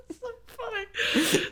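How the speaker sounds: slow, high, helpless laughing words. Real, not acted. Storyteller amused by own hot dog story, laughing. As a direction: squeeze it out through real laughter.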